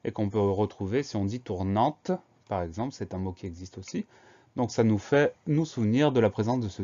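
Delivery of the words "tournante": "tournante" with the final T pronounced; sounded T. Shown as a demonstration. Teacher revealing the silent letter of tournant, sounded T. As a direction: let the last T of "tournante" be heard. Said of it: "le T qu'on n'entend pas".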